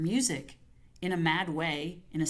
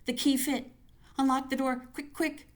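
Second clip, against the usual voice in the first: higher and louder frantic urging; panicked inner scream; 8 semitones higher, 3 dB louder than usual. Acted. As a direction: scream at yourself to hurry. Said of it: "her inner voice screaming".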